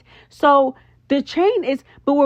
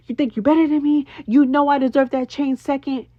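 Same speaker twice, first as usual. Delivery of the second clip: fast, smug imitation of a boastful friend; cocky mock quote; 3 semitones higher than usual. Recapping Meatball's boast to Tink, quick cocky mimicry. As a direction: rattle it off like she's sure she's better. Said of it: "she was in Tink's face so confidently saying".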